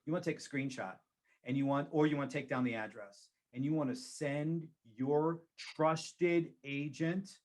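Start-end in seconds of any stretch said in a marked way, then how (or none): 5.6-7.4 trusted drawn out slowly with a rise; stress on trusted. Shown as a demonstration. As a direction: lean hard and slow on trusted. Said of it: "and I emphasize the word trusted".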